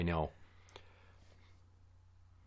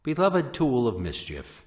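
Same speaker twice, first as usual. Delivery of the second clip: hammed-up solemn funeral speech; mock-tender farewell to a beloved horn; faltering tender eulogy.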